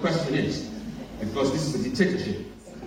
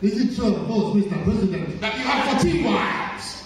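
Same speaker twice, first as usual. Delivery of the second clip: put-on African accent; 7 semitones higher than usual. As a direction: ask it in a broad African accent. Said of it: "repeat the question in an African accent".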